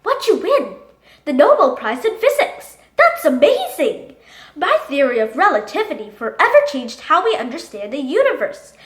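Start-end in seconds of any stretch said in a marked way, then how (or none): 0.0-4.2 excited amazement. Acted. Excited reaction to Nobel Prize.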